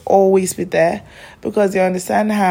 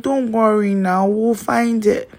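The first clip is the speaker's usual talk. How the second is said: comforting dad; 4 semitones higher, slower than usual. Retold or imitated. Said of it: "immediately he starts comforting me".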